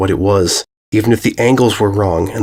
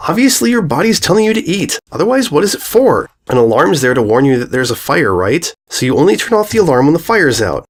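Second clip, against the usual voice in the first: put-on high lecturing girl voice; bossy filly; 5 semitones higher than usual. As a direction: lecture her like a know-it-all. Bully lectures friend.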